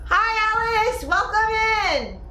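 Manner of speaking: sing-song welcome in, stretched out; excited high welcome. Real, not acted. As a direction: greet her with delight.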